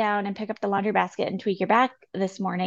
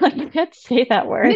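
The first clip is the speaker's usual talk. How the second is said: laughing; 4 semitones higher, 6 dB louder than usual. Real, not acted. Laughs after fumbling minuscule.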